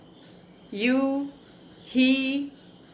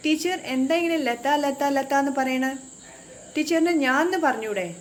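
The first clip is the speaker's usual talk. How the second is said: mock student question; 3 semitones higher than usual. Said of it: "I'm sure you will ask me".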